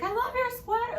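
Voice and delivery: high sweet compliment; sweet celebrity. Retold or imitated. Actor complimenting a fan's sweater, high sweet voice. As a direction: say it like a charmed star. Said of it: "he was like".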